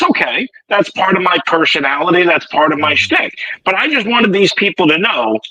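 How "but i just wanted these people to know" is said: smug, self-congratulating tone; mock gloating. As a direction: brag about always being right. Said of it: "there it is again".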